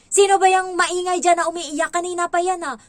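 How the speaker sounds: loud, high scolding shout; irritated teacher shouting; angry yell. Retold or imitated. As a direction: yell at the noisy kid from the doorway. Teacher yelling at crying child.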